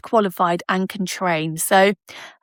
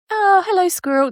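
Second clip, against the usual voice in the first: greeting the squirrel; 9 semitones higher than usual. Real, not acted. Spotting squirrel again, greeting it.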